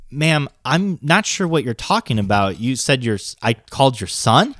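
polite, measured phone-agent voice; re-enacted composed, courteous questioning; customer service. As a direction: switch into calm customer service mode. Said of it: "I went to customer service, Mike".

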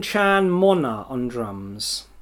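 The name read slowly, syllable by syllable; slow name reading. Real, not acted. Reading band names aloud for the podcast, slow and careful. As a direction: sound out each name with care. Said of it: "now I'm gonna read some Japanese names".

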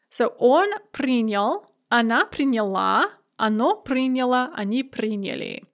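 приняла stressed on the last syllable, the other forms on the first; past tense stress demo. Shown as a demonstration. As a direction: make the stress move in приняла. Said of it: "The stress is on the ending in the feminine form".

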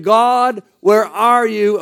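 enslaved people calling out to God; pleading cry. Retold or imitated.

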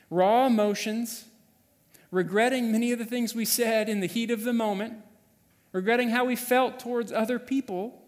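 rising fervour; impassioned build. Real, not acted. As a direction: drive the regret home. Sermon builds in intensity.

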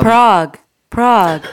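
lightly voiced transit announcer; Muni announcement voice. Comic turning dad's old train schedules into Muni announcement voice. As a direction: call out the stop as an isolated word. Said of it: "you could do Muni A S M R".

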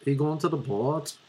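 light Belfast accent, question lifting up; attempted Belfast accent. Shown as a demonstration. Student asking about the nightclub, tentative Belfast accent. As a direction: try a Belfast lilt. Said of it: "this is my Belfast accent".

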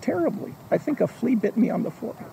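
offhand complaint. Acted. Stan casually complains.

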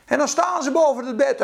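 normal talking voice

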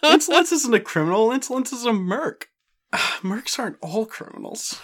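a hint of a streetwise New York tough; a touch of a New York merc, high and pushy; New Yorker accent. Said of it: "low-class New Yorker".

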